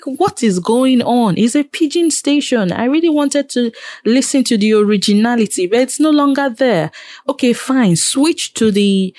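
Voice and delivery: high-pitched, animated exasperation; exasperated rant. Real, not acted. Radio host fed up with fake pidgin presenters, exasperated rant.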